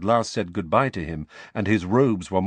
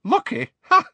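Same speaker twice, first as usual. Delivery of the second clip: put-on high, scoffing young witch; pitched-up, crowing exclamation; 7 dB louder than usual. A narrator's reading. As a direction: scoff at the word with a short ha. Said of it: "said the violet-haired woman".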